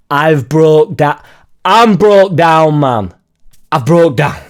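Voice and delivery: stranded driver ranting at a smug neighbour; exasperated rant. Retold or imitated. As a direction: vent at the neighbour in mock fury. Retold exasperated thought at neighbour.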